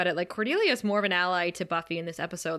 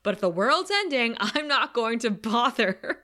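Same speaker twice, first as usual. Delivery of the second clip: a bright, louder Cordelia; imitating Cordelia; 4 semitones higher, 4 dB louder than usual. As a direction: toss it off like Cordelia. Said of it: "and she says".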